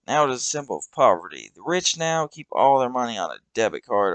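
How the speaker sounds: Douglas's voice. Acted. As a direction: lecture the kid with scornful glee.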